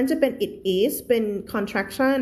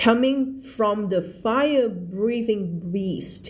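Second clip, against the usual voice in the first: very slow, careful reading; slow read-aloud; much slower than usual. Shown as a demonstration. Teacher reading the story line to her class, very slow. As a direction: read it word by word for learners. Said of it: "teacher reads sentence slowly".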